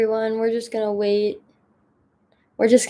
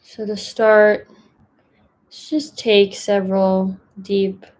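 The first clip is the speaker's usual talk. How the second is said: gentle guiding voice with long pauses between phrases; unhurried, even meditation instructions, leaving room to settle; guided meditation. Acted. Mindfulness fellow settling the group into a breathing meditation, calm guidance.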